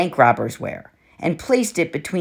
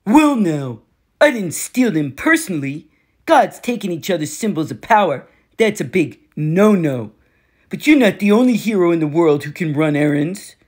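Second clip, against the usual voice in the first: lightly voiced cocky war god, taunting; a hint of a swaggering bully, amused; smug war god. Ares taunting Percy.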